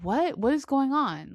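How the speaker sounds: mock-baffled questioning; baffled reaction. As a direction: act out being caught off guard. Retelling her baffled reaction.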